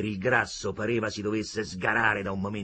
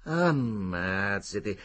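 good-humoured; much slower than usual. A narrator's reading. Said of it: "cambiando l'impazienza in buon umore".

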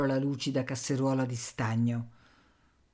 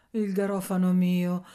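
vezzeggiativo recitato, ben sostenuto; carezzevole; 3 semitones higher, 5 dB louder than usual. A narrator's reading. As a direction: vezzeggia con parole distese. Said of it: "disse ella carezzevole". (un tocco carezzevole)

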